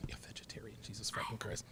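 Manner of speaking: mocking whispered echo; hushed, unvoiced mock confiding. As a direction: whisper it back in disbelief. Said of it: "You don't have to whisper".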